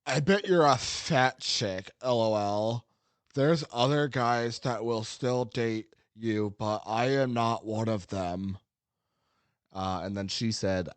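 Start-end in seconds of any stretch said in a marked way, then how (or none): 0.1-8.6 slow, slightly raised mock creep voice; lightly voiced sleazy incel, drawn out; a hint of a smug online creep reading his message; sweaty incel voice. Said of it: "I gotta do in sweaty incel voice".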